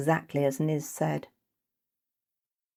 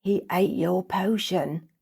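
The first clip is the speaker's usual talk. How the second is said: horrified glee; 3 semitones higher, slower than usual. Acted. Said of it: "Their tone was one of horrified glee".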